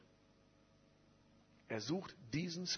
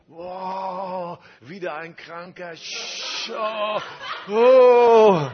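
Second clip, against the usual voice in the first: high, loud, laughing dismay; dismayed groan; 6 semitones higher, 20 dB louder, much slower than usual. Retold or imitated. The preacher mimicking his own dismay at another sick person, high, loud, laughing. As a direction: act out the inner "oh no" with a laugh. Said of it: "Das war meine Reaktion".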